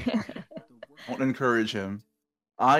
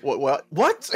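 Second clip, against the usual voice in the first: incredulous; 3 semitones higher, 5 dB louder, slower than usual. Retold or imitated. Reacting while reading.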